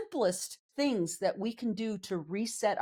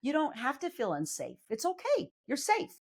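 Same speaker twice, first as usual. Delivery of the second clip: gentle reassurance to her own body, pitched higher; calm the body down like a scared child; soothing own body; 4 semitones higher than usual. Retold or imitated. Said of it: "I'm just gonna tell my body".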